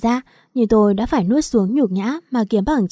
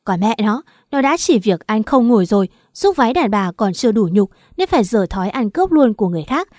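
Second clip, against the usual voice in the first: furious scolding, moderately raised; loud angry tirade. Acted. Ly shouts at Đạt's mother through the shut door, angry. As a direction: pound the door and bark it out, slightly louder. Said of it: "mà nói lớn".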